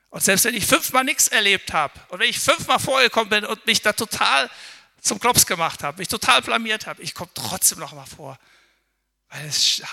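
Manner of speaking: the believer resolves to come forward again; fervent prayer. Acted. Loud, fervent mock prayer.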